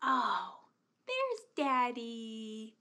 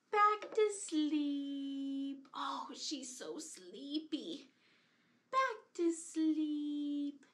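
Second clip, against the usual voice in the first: put-on soothing a child; slower than usual. Settling the doll back down.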